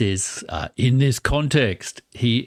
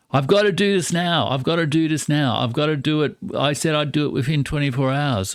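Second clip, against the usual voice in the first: imitating Trump; 5 semitones higher, faster than usual. Voicing Trump's urgent plea.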